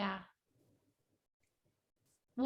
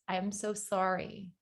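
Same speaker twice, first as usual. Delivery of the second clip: stock condolence; 2 semitones lower, 7 dB quieter than usual. Shown as a demonstration. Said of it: "the first thing that you want to say is".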